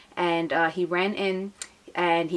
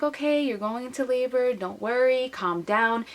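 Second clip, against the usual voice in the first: higher, placating reassurance; mock soothing, pitched up; soothing nurses; 6 semitones higher than usual. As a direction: imitate nurses calming a patient. Nurses soothing woman in labor.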